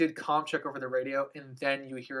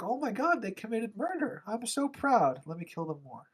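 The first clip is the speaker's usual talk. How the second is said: gleeful witch; 7 semitones higher than usual. Retold or imitated. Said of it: "The witch is like".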